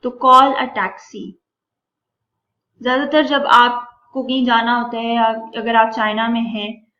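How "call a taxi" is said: careful slow classroom read; slow demo reading. Shown as a demonstration. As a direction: call a taxi stretched out, each word apart. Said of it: "उसका भी मतलब क्या होता है".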